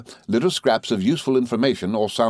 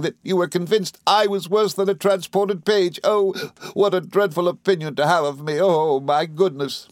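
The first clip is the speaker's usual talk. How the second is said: high, tearful wail of reproach; Dora, sobbing; 7 semitones higher than usual. A narrator's reading. Wife reproaching cruel husband, high acted sobbing. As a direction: pour out the hurt in a high, crying voice. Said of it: "sobbed Dora".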